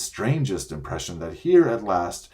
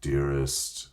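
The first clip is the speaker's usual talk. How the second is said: very gently; 6 semitones lower, 3 dB quieter than usual. A narrator's reading. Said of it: "said Aslan very gently".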